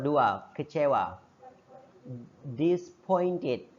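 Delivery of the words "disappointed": Disappointed said slowly, the A not voiced as a separate vowel: dis-point-ed; slow, careful model of Disappointed, dropping the A; teaching pronunciation. Shown as a demonstration. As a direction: pronounce Disappointed without the A, spoken slowly for students. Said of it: "dibacanya A nggak dibaca".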